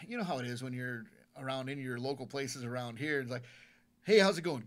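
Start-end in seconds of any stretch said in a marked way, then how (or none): 4.0-4.6 loud bright hello; chirpy shop greeting; cheery greeting. Retold or imitated. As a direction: call out a friendly hello across the store. Greeting strangers cheerfully at store.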